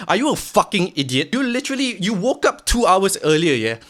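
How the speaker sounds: the harsh inner critic yelling; angry inner voice. Retold or imitated. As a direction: tear into your lazy self. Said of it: "Hamka number two is like".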